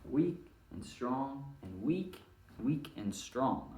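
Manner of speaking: weak and strong spoken slowly in beat; a teacher pacing out weak and strong beats; slow beat count. Shown as a demonstration. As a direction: step through the meter evenly. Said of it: "It's gonna be".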